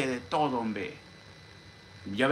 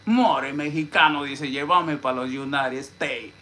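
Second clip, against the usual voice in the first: imitated sweetheart plea; 5 dB louder, slower than usual. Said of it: "Con esa palabra me decía".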